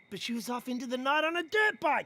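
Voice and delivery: ordinary talk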